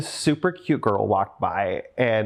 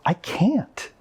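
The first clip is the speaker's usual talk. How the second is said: whispered refusal; 9 semitones higher than usual. Real, not acted. Declining offer, emotional.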